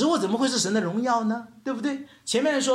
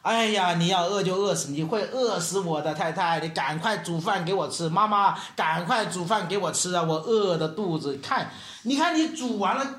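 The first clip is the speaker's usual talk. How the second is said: mock whining at a wife; retold grumbling. Preacher acts out complaining to wife for food, mock grumbling. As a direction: imitate a hungry husband's running complaint. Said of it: "我就跟她发怨言".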